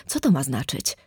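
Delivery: low, restrained anger; through clenched teeth. A narrator's reading. Furious brother questions his pale sister, low and seething. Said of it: "Wycedził".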